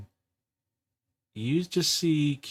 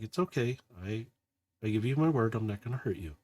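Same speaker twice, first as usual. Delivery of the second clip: soft reassurance; 6 dB quieter, faster than usual. Acted. Kiara reassuring the robot.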